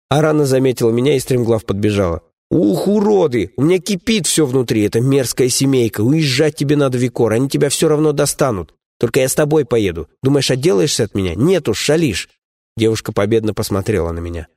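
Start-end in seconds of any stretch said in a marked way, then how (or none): 2.5-12.3 a higher, seething heroine voice; fierce young woman. Acted. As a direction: boil over with contempt, then stubborn.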